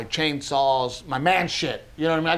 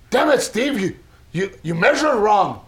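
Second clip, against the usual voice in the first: exasperated scolding; 5 semitones higher than usual. Retold or imitated. Acted quarrel over measuring.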